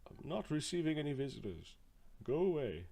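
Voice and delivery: muffled through a closed door. Acted. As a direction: speak as if behind a door. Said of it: "you hear a muffled voice".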